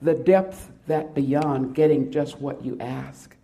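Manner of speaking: heightened, rising pleading recital; poem reading. Acted. Preacher reading a poem about waiting, heartfelt recital. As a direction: read the poem as a heartfelt plea.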